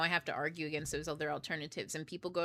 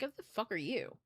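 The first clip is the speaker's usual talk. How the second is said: imagine firing back at an annoying voicemail; mildly exasperated, incredulous challenge; acted irritation; 3 semitones higher than usual. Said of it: "I'd have been fucking irritated".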